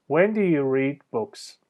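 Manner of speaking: "When do you read books?" said slowly, falling on "books"; slow it down and let each word fall; slow falling question. Shown as a demonstration. Teacher repeating slowly for students, falling tune. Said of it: "تون صدا میاد پایین".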